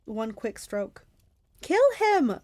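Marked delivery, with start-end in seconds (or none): 1.6-2.4 high, loud yell. Acted. Clarice pushing Percy to strike, loud yell. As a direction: urge the kill at full cry. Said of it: "Clarice yelled".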